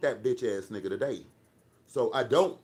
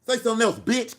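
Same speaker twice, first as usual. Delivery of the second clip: much higher and louder, yelling the dare; angry shouted dare at a chat troll; furious shout; 8 semitones higher, 6 dB louder, faster than usual. Real, not acted. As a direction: scream the challenge back at the troll. Daring a chat troll, escalating.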